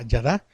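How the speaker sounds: yadá stressed on its last syllable; yadá, accent falling on the final A. Shown as a demonstration. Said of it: "acento en la A".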